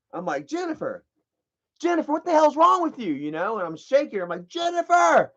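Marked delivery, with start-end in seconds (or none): 0.5-3.1 much higher voice, quick question; high, urgent retold plea; retold alarmed call. Retells calling the woman, shaking her. 4.5-5.3 high-pitched cry of her name; acted-out high call; retold urgent call. Retells calling her while shaking her.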